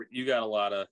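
muffled reverb line; underwater sound. Real, not acted. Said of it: "It's like you're underwater".

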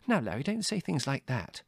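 high, mild motherly reproof; severe. A narrator's reading. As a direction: tell him off gently but sternly. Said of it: "said Mother severely".

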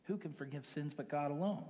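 lightly voiced outrage of offended scribes; outraged scribes. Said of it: "So they're outraged".

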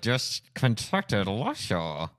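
slow, through clenched teeth; ventriloquist voice. Shown as a demonstration. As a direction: talk without opening your mouth. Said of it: "it is ventriloquist".

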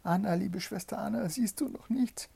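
high, anxious call without volume; wife calling her sister. A narrator's reading. Wife calls Anna, high urgent call. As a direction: call urgently but keep it high and contained. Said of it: "und dann rief sie".

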